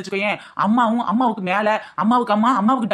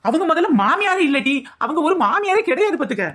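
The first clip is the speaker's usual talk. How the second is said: fake tearful; 6 semitones higher than usual. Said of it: "ஏன் இப்படி கண்ணீர் விடுற?".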